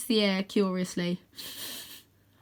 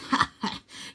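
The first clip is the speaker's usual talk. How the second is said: villain laugh. Acted. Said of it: "Croaky laughs".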